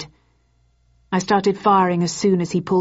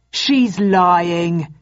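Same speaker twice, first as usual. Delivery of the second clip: louder indignant accusation; outraged at her story; a mildly indignant protest; 4 dB louder than usual. A narrator's reading. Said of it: "he said indignantly".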